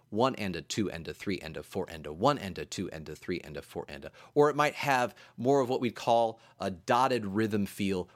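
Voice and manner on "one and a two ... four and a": soft low lilting count; counting triplets. Shown as a demonstration. Teacher counting triple subdivision, soft and lilting. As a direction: roll through one and a two and a, softly. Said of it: "more of a triple subdivision".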